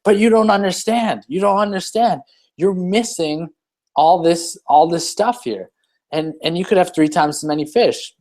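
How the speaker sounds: a hint of a salesman who can't believe it; insistent businessman. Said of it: "That's our life".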